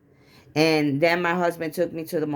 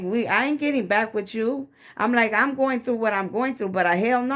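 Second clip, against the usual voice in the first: higher-pitched, emphatic retold refusal; indignant refusal; 4 semitones higher than usual. Wife telling husband she won't get back with him, indignant. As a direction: shut the idea down with raised pitch.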